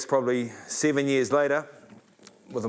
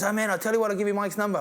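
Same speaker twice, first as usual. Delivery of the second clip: high-pitched offer of a favour; American bar stranger; 9 semitones higher, faster than usual. Retold or imitated. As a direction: imitate the bar guy, voice raised in pitch. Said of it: "big African-American guy was there".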